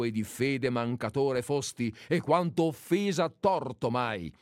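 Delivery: defiant declaimed verse; poem recitation. Acted. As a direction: recite it like a challenge. Recites Veronica's challenge poem.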